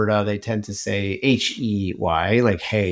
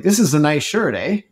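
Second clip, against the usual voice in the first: retold Canadian eh; 5 semitones higher than usual. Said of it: "And I was like".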